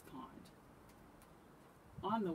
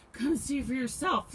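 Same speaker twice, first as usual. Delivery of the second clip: louder, higher, mildly frightened urging; shivering; 8 semitones higher, 13 dB louder than usual. A narrator's reading. Shivering Hedgehog challenges Rabbit to look, mildly afraid. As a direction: urge them with a touch of fear.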